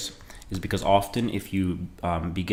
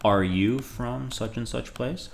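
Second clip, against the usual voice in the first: slowly spelled out, the question rising higher; slow model sentences; 3 semitones higher, slower than usual. Shown as a demonstration. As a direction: model both lines slowly, then lift the question. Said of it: "You could say".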